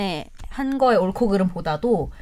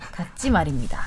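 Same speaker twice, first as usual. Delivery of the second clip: low, soft army speech ending; Korean military style; 6 semitones lower, 5 dB quieter than usual. Retold or imitated. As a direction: clip it like a soldier to a sergeant. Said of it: "이 말투인데".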